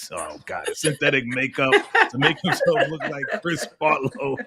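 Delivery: words broken up by real laughter; laughing. Real, not acted. Cracking up at his own plot twist, laughing. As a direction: laugh through the joke.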